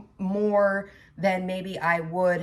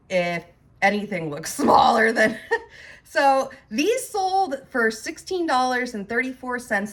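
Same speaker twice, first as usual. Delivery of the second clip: laughing; 3 semitones higher, 4 dB louder than usual. Real, not acted. Laughing at own big feet.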